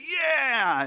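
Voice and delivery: high, loud, drawn-out falling yeah; creepy, weird voice. Acted. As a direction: agree far too eagerly in a creepy voice. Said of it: "creepy, weird voice that you do".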